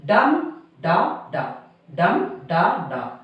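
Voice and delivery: slow, separated "dum da da", falling away after the stressed "dum"; dactyl beat. Shown as a demonstration. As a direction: stress DUM, then two lighter beats: DUM da da. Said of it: "One stressed syllable followed by two unstressed".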